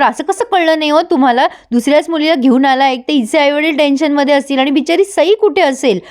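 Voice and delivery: mildly indignant, acted-out telling-off; retold mild scolding. Mukta tells Sagar off over the wrong child, retold mild scolding. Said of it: "आता मुक्ता ओरडते सागरवर".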